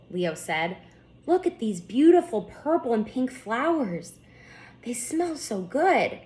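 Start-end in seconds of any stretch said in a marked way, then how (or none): 1.3-6.2 bright wonder falling into a whisper; hushed wonder. Acted. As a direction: whisper the last line as if awed by the scent. Leo marvels at flowers.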